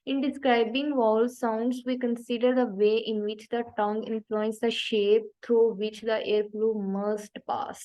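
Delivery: reading the definition very slowly, word by word; slow reading aloud. Shown as a demonstration. Teacher reading the textbook definition slowly to students. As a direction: read it out slowly like dictation. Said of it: "reads textbook definition aloud".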